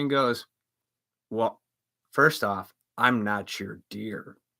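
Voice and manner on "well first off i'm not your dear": put-on stern woman voice, lower pitch. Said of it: "she looks at me very stern".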